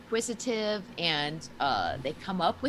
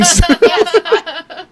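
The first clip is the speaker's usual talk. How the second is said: loud, high burst; excited; 10 semitones higher, 18 dB louder than usual. Real, not acted. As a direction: blurt it out keenly. Defending herself loudly.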